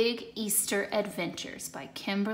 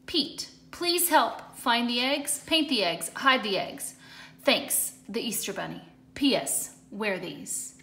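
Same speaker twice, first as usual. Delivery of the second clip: reading the bunny's note. Acted. Easter Bunny's note asking Pete for help, lightly voiced. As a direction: read the note out with gentle emphasis. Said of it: "except for a note".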